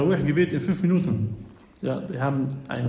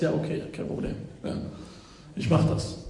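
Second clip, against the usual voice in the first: anxious; 6 dB quieter than usual. Retold or imitated. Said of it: "ganz ängstlich und sagst".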